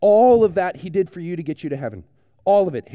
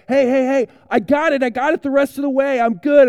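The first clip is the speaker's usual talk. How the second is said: cocky reassurance; 6 semitones higher, 5 dB louder than usual. Pretend. Telling Charles he can manage alone.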